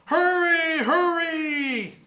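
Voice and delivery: high, urgent call. Acted. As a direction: hurry them along, high and urgent. Urging the firefighters on.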